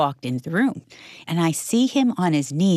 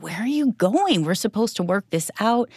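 higher-pitched mock protest; retold exasperation; 5 semitones higher than usual. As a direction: replay a mildly exasperated plea to him. Wife replays thoughts during a fight.

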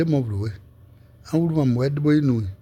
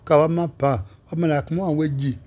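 ordinary talk

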